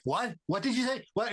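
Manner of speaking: high, disbelieving double-take; incredulous what. Retold or imitated. Actor hearing the director's one-word verdict, stunned disbelief. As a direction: ask him to repeat it, stunned. And I'm like.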